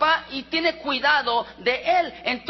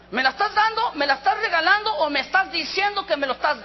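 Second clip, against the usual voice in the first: incredulous; 5 semitones higher, faster than usual. Retold or imitated. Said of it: "le digo".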